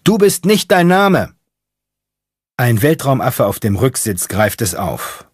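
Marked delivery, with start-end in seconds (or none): 0.0-1.3 very high, loud yell; shouting into the wind. Acted. Mechanic yelling his creed into the night wind, shouting. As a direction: scream it against the wind. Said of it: "schreit in den Wind".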